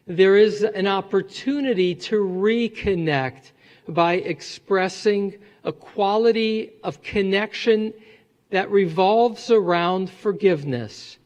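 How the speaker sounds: usual speaking voice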